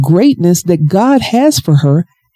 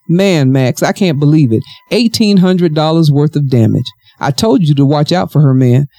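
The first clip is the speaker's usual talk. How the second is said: composed storytelling voice; story narration. Acted. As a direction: read the novel aloud, evenly.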